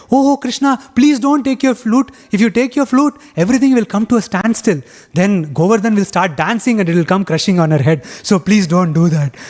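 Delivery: rushing in to stop him; a mild mock panic, high and urgent; alarmed pleading cowherds. Other cowherds running up, alarmed.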